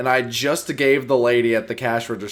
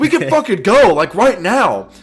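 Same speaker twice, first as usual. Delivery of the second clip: acted heated, passionate outburst, higher and louder; 9 semitones higher, 8 dB louder than usual. Retelling a worker confronting a coworker: imitating a heated confrontation. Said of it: "start talking passionately".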